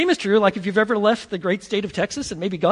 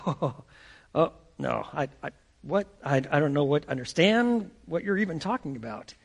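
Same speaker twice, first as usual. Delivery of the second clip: stammering denial; 4 semitones lower than usual. Acted. Peter caught out by the servant girl, nervous stammer. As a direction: fumble for words, cornered.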